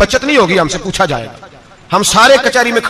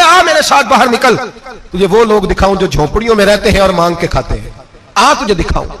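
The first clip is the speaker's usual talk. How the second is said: angry rebuke. Retold or imitated. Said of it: "हजरत उमर जलाल में आ गए".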